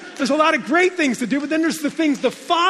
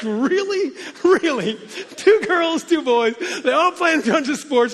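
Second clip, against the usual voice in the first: incredulous wife; 4 semitones higher, slower than usual. Retold or imitated. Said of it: "And she's like".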